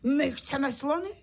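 high-pitched chanting call; crying out a demand. A narrator's reading. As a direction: chant it like an insistent child. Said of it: "Tak začal křičet".

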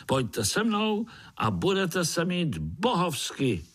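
high, winning invitation; high victorious spider voice; triumphant little spider. Acted. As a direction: sell the forest proudly. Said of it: "řekl Pája vítězně".

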